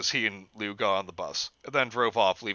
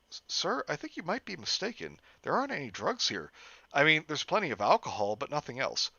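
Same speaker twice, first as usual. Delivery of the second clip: nervous; 5 semitones higher than usual. Acted. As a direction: plead nervously with the cop. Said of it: "Jeff asked nervously".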